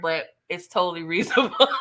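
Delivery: breaking into laughter mid-line; laughing while reading. Real, not acted. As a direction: read it through a laugh. Reading chat comment, cracking up.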